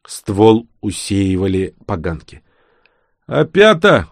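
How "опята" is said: high, loud cry of delight; excited exclamation. A narrator's reading. Vanya spots mushrooms on the trunk, excited exclamation. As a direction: exclaim it, pitch leaping up. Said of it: "воскликнул Ваня".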